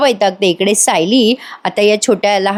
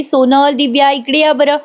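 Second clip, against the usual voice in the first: put-on mild call to the girls, higher; lightly raised call across the room; 4 semitones higher than usual. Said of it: "आता ती आवाज देते". (मुलींना हाक मारणं, थोडासा उंच आवाज)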